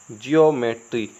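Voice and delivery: ज्योमेट्री read as "jyo-metri"; pronunciation demo. Shown as a demonstration. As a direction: sound out "jyo" to begin ज्योमेट्री. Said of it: "तो हम इसको क्या पढ़ेंगे?". (ज्योमेट्री को "जियो-मेट्री" पढ़ें)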